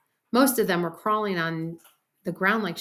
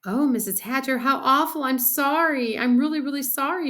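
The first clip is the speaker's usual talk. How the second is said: put-on high, remorseful girl's plea; mildly hammed-up tearful apology; crying; 6 semitones higher, 4 dB louder than usual. A narrator's reading. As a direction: apologize in an upset wail. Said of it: "Sheila cried".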